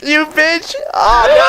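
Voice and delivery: very high, loud panicked shouting; yelling while running away. Real, not acted. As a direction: scream it as you get caught. Being killed while fleeing.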